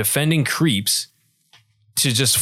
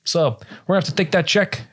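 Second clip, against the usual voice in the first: mock mob lawyer; 3 semitones higher than usual. Acted mob lawyer scene.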